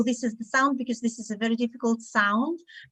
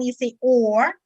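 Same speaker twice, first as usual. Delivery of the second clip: British or; 4 dB louder than usual. Shown as a demonstration. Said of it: "as the British one".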